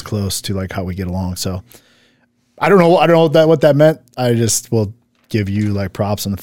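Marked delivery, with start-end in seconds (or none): 2.6-4.0 baffled. Real, not acted. Puzzled by a comment.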